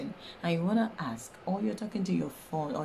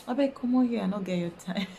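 louder, shooing someone off; dismissive; 4 semitones higher, 4 dB louder, faster than usual. Acted. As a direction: brush him off, amused. Acted dismissing Joe.

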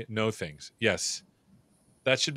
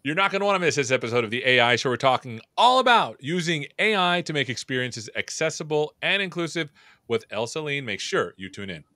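upbeat promo announcer read; first try at the show teaser; show intro read. Shown as a demonstration. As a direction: hype the episode like a trailer. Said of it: "intro take".

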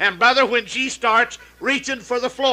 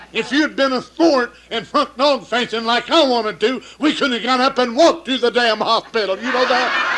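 louder, laughing through the blame; laughing scolding; 4 semitones higher, 6 dB louder than usual. Acted. Man blaming the madam, laughing and louder. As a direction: scold her while cracking up.

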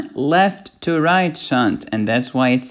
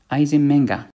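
Eisenmenger with a dropped final R, Boston style; mock Boston accent, R-less ending. Shown as a demonstration. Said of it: "My Boston accent is weird".

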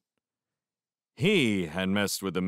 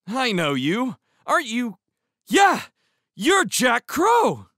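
put-on high, loud kid's voice; excited exclamation; 8 dB louder, slower than usual. A narrator's reading. Kid recognizing the stranger by the river, exclaiming. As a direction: build to a loud, amazed cry of recognition. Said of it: "he exclaimed".

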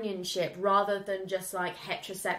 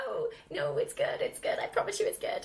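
laughing plea; 10 semitones higher, 4 dB quieter than usual. Real, not acted. Pleading while laughing.

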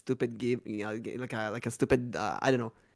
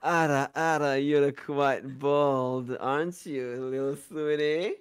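dummy mommy voice; slower than usual. Acted. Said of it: "in a dummy mommy voice".

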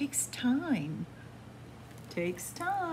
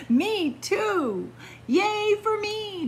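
excited duck; 11 semitones higher, 5 dB louder, slower than usual. Acted. Davy cheers.

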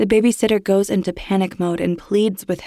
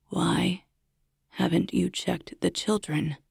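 creepy caller; 6 dB quieter than usual. Acted. Stalker caller on the phone.

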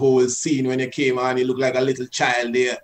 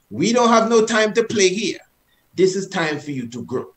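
firm, stern order to the hand; disciplining a child; 3 semitones higher than usual. Shown as a demonstration. Teacher showing how to address the hand, stern. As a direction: lay down the law. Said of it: "as if you're disciplining your child".

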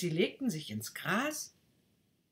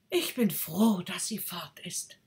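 to itself; 3 semitones higher, 4 dB louder than usual. Acted. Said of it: "zu sich selbst".

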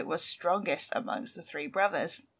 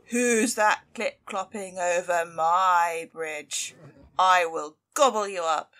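slow, louder troll bellow; troll yelling; 5 dB louder, slower than usual. Acted. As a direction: drag out each threatening word.

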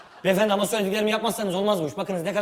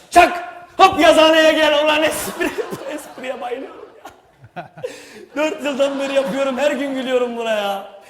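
loud gleeful cheer; 6 semitones higher, 9 dB louder than usual. Real, not acted. Director loud self-praise to crew.

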